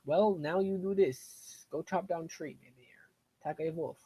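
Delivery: slow, patient, caveman-like instructing; slow broken English. Pretend. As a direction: talk down like to a simple villager. Answering villagers in broken English.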